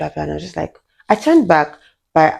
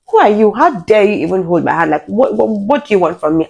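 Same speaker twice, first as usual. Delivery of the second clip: indignant outburst, mildly heated; retold anger; 3 semitones higher than usual. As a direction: confront him with stumbling, rising indignation. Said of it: "the shock was now anger".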